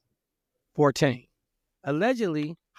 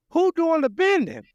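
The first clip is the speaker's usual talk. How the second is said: high, loud sassy taunt; hammed-up mocking woman; mocking a singer; 11 semitones higher, 5 dB louder than usual. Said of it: "to go to the funeral and be like".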